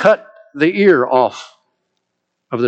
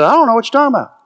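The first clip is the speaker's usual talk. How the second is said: Peter breaking down; 8 semitones higher, much faster than usual. Acted. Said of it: "Peter breaks down and says".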